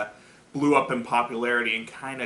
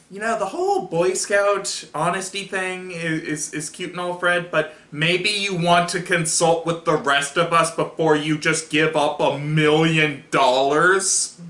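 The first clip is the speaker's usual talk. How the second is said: mildly irked telling-off, pitched up; lightly acted exasperated scolding; miffed; 4 semitones higher, 5 dB louder than usual.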